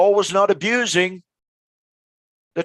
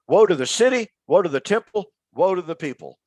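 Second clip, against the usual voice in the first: retold screaming; faster than usual. Host voicing the doomed prophet of Jerusalem, mock wailing. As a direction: cry out the prophet's warning to the city. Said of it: "He went around screaming".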